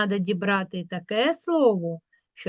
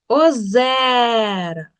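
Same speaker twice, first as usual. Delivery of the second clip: "озера" with a long drawn-out Е; stress on Е; 3 dB louder, much slower than usual. Shown as a demonstration. Teacher making the vowel heard in a check word, stressed Е. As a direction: stretch the Е in "озера". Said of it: "Чуємо".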